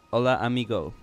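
playful fake Spanish accent on Hola, amigo; a jokey put-on Spanish hello; mock Spanish greeting. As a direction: greet like a hammed-up tourist. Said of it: "No, I'll stop being racist".

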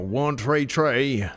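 slow Irish "one tray tray" with "tray" for three; Irish accent. Shown as a demonstration. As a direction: drawl "tray tray" in an Irish lilt. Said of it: "give me an Irish accent".

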